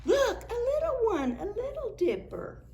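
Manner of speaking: high sing-song delight. Real, not acted. Delighted discovery for the child.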